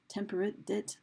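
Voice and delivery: TEMPERATE ends in -it and date becomes DIT; rhyming short vowels. Shown as a demonstration. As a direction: say temperate as TEM-per-it, then dit. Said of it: "how those were pronounced".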